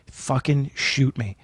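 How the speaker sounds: slow, drained mutter; weary despair. Retold or imitated. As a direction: dread it like a condemned man. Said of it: "and I'm like".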